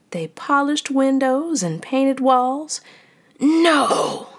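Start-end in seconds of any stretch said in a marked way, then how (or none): 3.4-4.3 high, loud wail of No; ghost wail. A narrator's reading. Fred the ghost wailing at the workers. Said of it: "Fred wailed".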